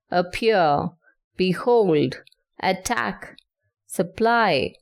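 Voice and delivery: "appear, behold, attack, supply", each stressed on the second syllable; iambic stress. Shown as a demonstration. Teacher gives examples of iambs, second syllable stressed in "appear, behold, attack, supply". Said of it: "one unstressed syllable followed by a stressed syllable".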